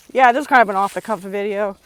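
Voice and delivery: breathless after riding a scooter; out of breath. Real, not acted. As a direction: talk while catching your breath. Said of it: "Sorry, I'm so out of breath".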